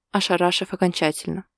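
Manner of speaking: ordinary delivery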